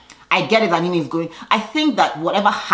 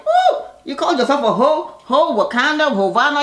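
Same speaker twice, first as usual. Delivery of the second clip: high, louder, laughing jeer; laughing disbelief; 9 semitones higher, 3 dB louder than usual. Retold or imitated. Friends teasing Shamari, high laughing disbelief. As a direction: tease her with a squeal. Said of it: "they're like".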